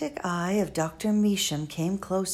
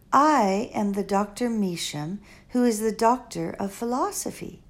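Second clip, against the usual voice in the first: lightly voiced elderly foreign woman, musing; a hint of an old, wise, rambling lady; Doctor Measham. Old doctor musing to Flora at the bedside, lightly voiced.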